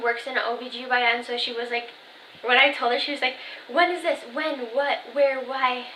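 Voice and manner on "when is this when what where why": mock interrogation, pitched up at first; retold questioning. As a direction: imitate mom firing off questions. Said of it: "questioning me".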